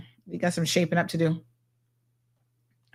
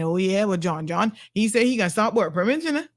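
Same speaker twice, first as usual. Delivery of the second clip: mock naive voter, climbing much higher in disbelief; gullible voter; 4 semitones higher than usual. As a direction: play a credulous supporter scolding a doubter. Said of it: "vote his behind right back in".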